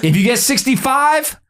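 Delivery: laughing, pitch jumping high; joking while laughing at his own bit. Real, not acted. Joking to listeners, laughing. Joking about readers getting value.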